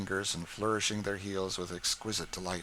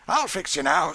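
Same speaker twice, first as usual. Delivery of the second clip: higher, louder sly threat; gleeful muttered threat, raised; Sam scheming; 8 semitones higher, 10 dB louder than usual. A narrator's reading. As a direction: promise mischief to the colt.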